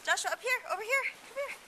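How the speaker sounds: high call across the snow; calling from far away. Real, not acted.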